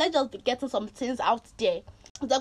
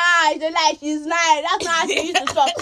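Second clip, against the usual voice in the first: higher-pitched mimicry of an accuser; raised, teasing protest; mock accusing friend; 4 semitones higher, 3 dB louder than usual. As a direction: call her out like a heckling friend. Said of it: "she'll be like".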